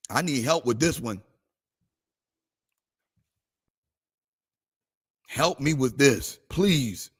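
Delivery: quiet prayer retold. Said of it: "I was praying the whole night".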